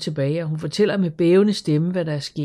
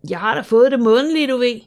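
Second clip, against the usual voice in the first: higher and louder, mildly affronted; mildly hurt pride; a bit offended; 8 semitones higher, 8 dB louder than usual. A narrator's reading. Asta defending herself to Karen, a touch offended. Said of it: "lyder en smule fornærmet".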